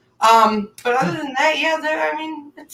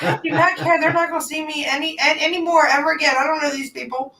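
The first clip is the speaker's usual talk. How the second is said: lightly imitated higher, insistent voice; dismissive great-grandmother; 6 semitones higher, faster than usual. Great-grandmother refusing to care who sees, mock insistence. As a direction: brush off the objection as great-grandmother.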